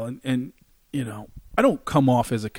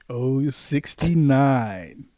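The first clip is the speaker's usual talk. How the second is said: mock bingo call; 4 dB quieter, much slower than usual.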